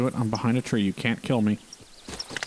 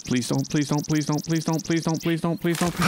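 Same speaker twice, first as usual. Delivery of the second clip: desperate pleading; 5 semitones higher than usual. Real, not acted. Begging an animal not to kill.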